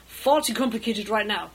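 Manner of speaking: loud, firm apology; harried, emphatic brush-off; flustered refusal. Acted. To the captain amid courtroom chaos, flustered refusal.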